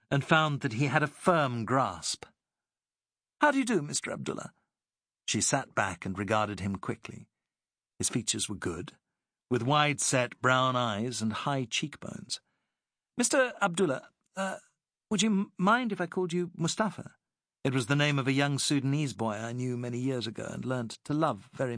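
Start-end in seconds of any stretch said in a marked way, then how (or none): 3.4-4.5 Alice. A narrator's reading. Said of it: "Alice clasped his hand". 13.2-17.1 higher, lighter lady's voice, polite; a gracious English lady asking a favour; Alice. A narrator's reading. Alice asks the captain to use his name, higher lady's voice.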